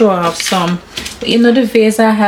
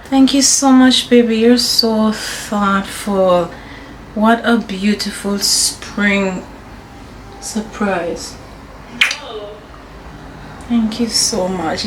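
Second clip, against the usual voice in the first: soft tender thanks; 4 dB quieter, slower than usual. Real, not acted.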